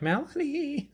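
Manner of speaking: high mom's call through a laugh. Retold or imitated. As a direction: call her name like mom. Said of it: "your mom was just like".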